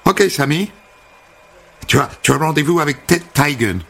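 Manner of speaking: high, gushing hairdresser greeting; sing-song high welcome; bubbly American hairdresser. Acted. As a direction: chirp it like an overfriendly American. Holly tells him the news.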